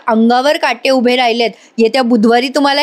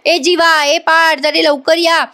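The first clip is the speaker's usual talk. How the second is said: mock shout, higher-pitched but barely louder; retold loud call; 5 semitones higher, slower than usual. Uncle calls Jiva and Parth to come quickly, mock shouting. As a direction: call them over in a raised, half-hearted yell. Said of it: "मिथुन काका एवढे जोरात ओरडतात".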